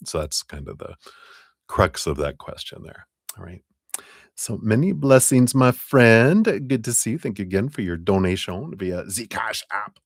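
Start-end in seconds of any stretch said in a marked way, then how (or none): 4.4-10.0 playful put-on German accent, pitched up. Thanking a donor for the reading in a playful German accent. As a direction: thank them in a jokey, higher German accent. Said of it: "Gotta do my German accent".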